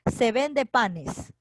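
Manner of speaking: each word drawn out slowly for the student; slow example reading. Shown as a demonstration. Teacher to student, dictating an example sentence, slowly. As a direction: read the example out slowly and clearly.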